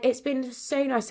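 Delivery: fighting back tears through a laugh; real emotion breaking into a laugh; getting emotional. Real, not acted. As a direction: voice lifting high as tears come. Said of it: "I'm gonna get emotional".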